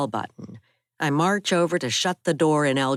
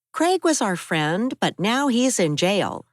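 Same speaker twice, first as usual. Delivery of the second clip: put-on higher young woman's voice, upset; raised, higher-pitched Abby telling of the break-in; Abby's voice; 7 semitones higher than usual. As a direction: voice Abby, shaken by the attack.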